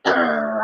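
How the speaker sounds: short grumpy "urgh"; mad growl. Shown as a demonstration. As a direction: demo a mad growl for small children. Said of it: "the mad face".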